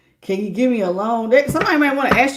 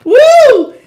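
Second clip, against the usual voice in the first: a big loud whoop, much higher; loud woo; 14 semitones higher, 10 dB louder than usual. Real, not acted. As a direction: let it out with a whoop. Exclaiming after laughter.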